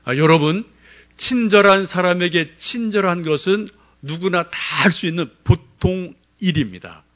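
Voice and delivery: fervent pulpit delivery; preaching. Acted. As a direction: preach it to the congregation. Preaching at full force.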